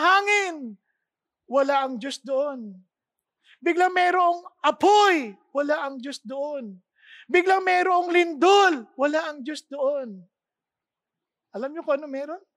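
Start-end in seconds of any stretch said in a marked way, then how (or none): 3.6-5.4 louder, slow proclaiming; dramatic announcement. A narrator's reading. Preacher to congregation, narrating the sudden fire, loud and slow. 7.3-8.8 louder, slow proclaiming; dramatic announcement. A narrator's reading. Preacher to congregation, narrating the sudden fire, loud and slow.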